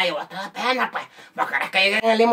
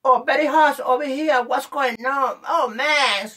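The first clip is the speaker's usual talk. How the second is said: higher, put-on whiny English; English-speaking show-off; 4 semitones higher, slower than usual. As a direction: whine about the heat in affected English. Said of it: "Ellos hablan en English". (presumido quejándose en inglés)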